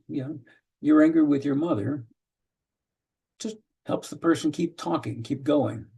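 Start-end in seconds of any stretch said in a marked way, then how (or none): 0.8-2.0 even statement tune on mother; flat statement. Shown as a demonstration. Counselor reflecting to a client, a flat statement. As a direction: say it as a plain reflection. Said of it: "just a flat statement".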